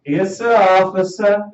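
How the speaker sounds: slow, meek southern drawl; mock southern accent. Man stopped by police, meek mock southern accent. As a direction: put on a southern accent, slowed and deferential. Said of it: "You get your southern accent real quick".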